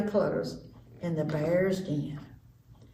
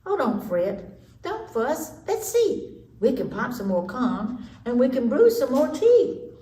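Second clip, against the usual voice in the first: higher squeaky soothing; mouse squeaks; 4 semitones higher than usual. Acted. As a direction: comfort the bear in a little mouse voice. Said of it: "The mouse squeaks".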